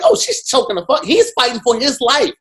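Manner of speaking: watching the video, reacting in high, loud, laughing disbelief; retold outrage. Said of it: "But then I was like".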